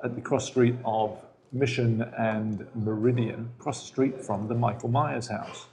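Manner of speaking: measured, formal broadcast delivery; BBC newscaster. Acted. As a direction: read it like a BBC news announcer. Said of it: "You actually sound like a B B C newscaster".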